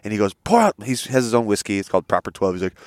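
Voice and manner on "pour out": high-pitched imitation of a rowdy order; retold shout-out to a bartender; mock bar-room call. Acting out McGregor in bar.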